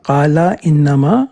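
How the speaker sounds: very slow drawn-out Arabic words; آہستہ تلاوت; slow recitation. Shown as a demonstration. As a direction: intone قال انما slowly, stretching انما. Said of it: "کیا اس کا مطلب پڑھیں؟".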